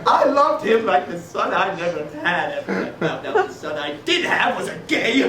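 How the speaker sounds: melodramatic lament. Acted. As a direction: lament loudly for comic effect. Father's melodramatic lament for Colin.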